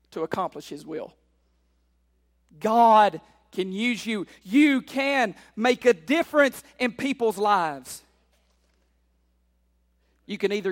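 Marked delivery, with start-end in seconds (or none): 2.6-8.0 slow, weighty opening on God; measured but forceful preacher; emphatic preaching. Real, not acted. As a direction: press the promise on the congregation. Preaches to congregation.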